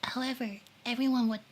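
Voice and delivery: eating while talking; talking through a mouthful; mouth full. Real, not acted. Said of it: "The eating is making the stream lag".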